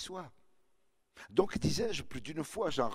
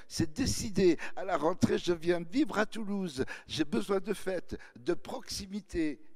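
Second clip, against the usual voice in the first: put-on eager girl; 6 semitones higher than usual. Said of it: "elle harcelait de plus belle".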